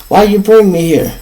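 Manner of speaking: mad. Retold or imitated. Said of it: "I'm mad".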